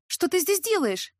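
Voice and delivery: high, slow cry of astonishment; exclaiming. A narrator's reading. Heroine to uninvited guest on the balcony, exclaiming. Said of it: "воскликнула".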